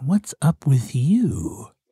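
slow, unhurried fox character voice, taking its time. Voicing a fox greeting a chirping cricket: voicing a fox. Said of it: "and he's like".

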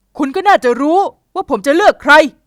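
curt, sharp, loud, cutting snapped reply. Narrator reading a young man's answer to a young woman, snapping a reply. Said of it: "เขาตวัดเสียงตอบ".

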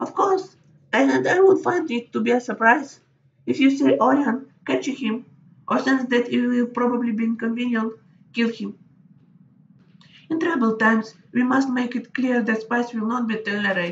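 put-on nonchalant, unconcerned old woman voice, very high. An old woman sipping her tea gives orders to the player, calmly unconcerned. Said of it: "The charming old woman sips her tea, seemingly unconcerned by the death she has just ordered".

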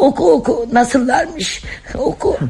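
tearful, crying voice. A mother listens as her son's letter is read aloud, crying. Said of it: "Niye ağlıyorsun anne?".

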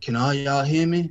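whispered speech. Recalling the man in the sergeant hat whispering to us, retelling a whisper. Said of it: "he whispers to us".

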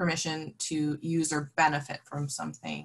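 plain

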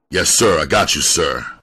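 plain

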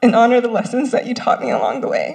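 crying, tearful, with swooping pitch. A student thanks friends, family and mentors while receiving a white coat, crying while speaking. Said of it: "I didn't think I was gonna cry".

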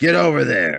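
loud, growled delivery. Narrator reads a man's order to a teen, growling. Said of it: "he growled".

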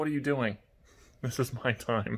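huffy, put-out, irritated pet voice. Voicing a pet bird who is getting pissed off: voicing an annoyed bird. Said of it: "now Maeve's getting pissed off".

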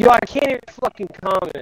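frustrated, pissed-off, fed-up angry outburst. Streaming a game and finding you can't comment, angry and frustrated. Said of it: "I'm getting fucking pissed off".

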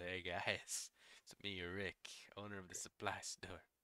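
put-on relaxed stoner voice. Voicing Rick, owner of the supply store, in a stoner voice. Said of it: "Okay, stoner voice".

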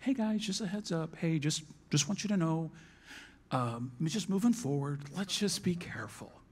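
nice, gentle, easygoing, soft, calm, tender tone. Showing the church one way he may have given a warning: calm, tender tone. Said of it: "nice, tender, calm, tone".

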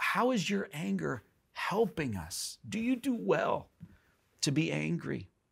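gentle, uncondescending tone. Speaker retelling God's question to Jonah, mock-tender, not condescending. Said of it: "And not in a condescending way".

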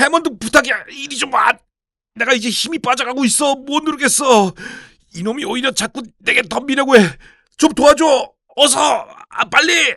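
desperate shouting. Pinning down an unseen attacker and calling to someone for help, shouting desperately. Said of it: "나는 결사적으로 외쳤다".

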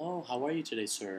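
put-on soft, super-polite, overly well-mannered little kid voice. Describing a kidult, a child who acts grown-up, imitating an overly polite kid. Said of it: "they're super polite".

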